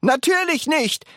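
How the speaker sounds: high, brisk exclamation; calling out. A narrator's reading. Wonka answering gasping grandma, calling out. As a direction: exclaim it as if obvious. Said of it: "rief Mister Wonka".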